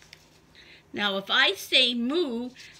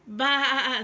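bleating sheep voice; 3 dB louder than usual. Acted. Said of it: "said the sheep".

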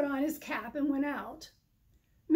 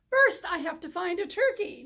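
louder call to the sheep; bellowing back; 4 semitones higher, 5 dB louder than usual. Acted. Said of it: "Mister Moose bellowed back".

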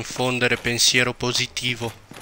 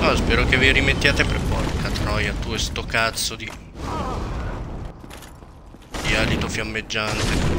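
explosive italian cursing; 5 dB louder than usual. Real, not acted. Cursing at enemy in game.

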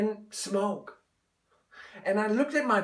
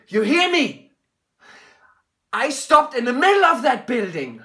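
loud; 3 semitones higher, 4 dB louder than usual. Acted. Urging his father.

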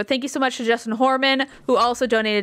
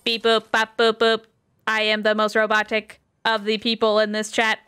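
robot voice. Pretend. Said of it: "I sound just like a robot right now".

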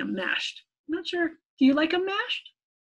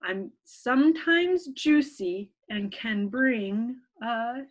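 put-on slow, even reading to children; riddle reading; much slower than usual. Teacher reading a riddle to children, slow and even. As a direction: read the riddle slowly for little ones.

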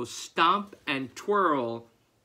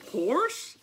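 calling out; 10 semitones higher, 4 dB louder than usual. Acted. Farmer calling for horse.

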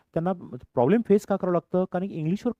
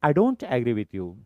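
slow model phrase; much slower than usual. Shown as a demonstration. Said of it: "teacher models slow phrase".

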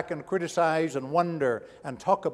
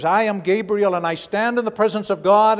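louder, declaring with authority; proclaiming angel; 4 semitones higher, 5 dB louder than usual. Acted. Gabriel declaring himself to Zechariah, loud and proud. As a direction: announce yourself like a herald.

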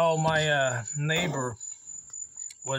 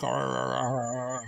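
low stuttering "arr" noises; juddering, low mock shiver; imitated teeth chattering; 6 semitones lower than usual. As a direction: mimic a scared dog's chattering jaw. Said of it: "Her teeth are all chattering".

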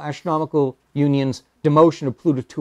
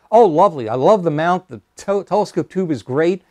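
higher, eager praise for a homemade telescope; elderly astronomer praising a young man's telescope, delighted and higher; delighted old gentleman; 4 semitones higher, 4 dB louder than usual. Retold or imitated. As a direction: gush like a kindly elder admiring the work. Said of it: "And Doctor Tombaugh says".

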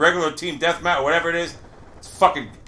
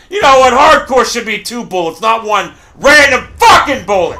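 angry rant. Real, not acted. Ranting about hardcore mode.

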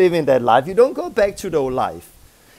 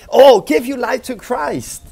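mock prosperity preacher; 6 semitones higher, 6 dB louder than usual.

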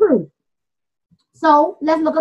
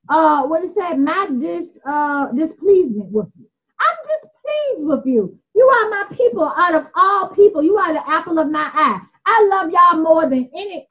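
paraphrasing the Most High; 3 semitones higher than usual. Retold or imitated. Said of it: "I'm paraphrasing, like, if I was the Most High".

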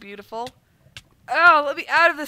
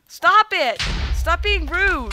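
indignant shout; 5 semitones higher, 3 dB louder, slower than usual. Real, not acted. Set on fire, protesting.

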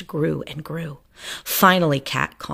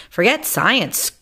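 squeak; 5 semitones higher, 3 dB louder, slower than usual. Acted. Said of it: "squeaked Doctor Varmint".

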